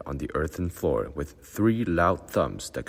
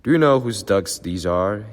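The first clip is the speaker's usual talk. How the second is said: much higher and louder challenge; loud demand; 6 semitones higher, 8 dB louder than usual. A narrator's reading. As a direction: demand it to the whole room. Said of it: "he demanded".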